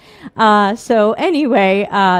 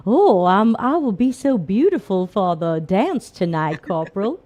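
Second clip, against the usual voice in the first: put-on dainty Southern accent. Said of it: "put on, like, a dainty Southern accent".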